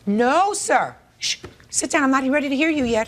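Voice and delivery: stern command. Real, not acted. Judge silencing interrupting defendant.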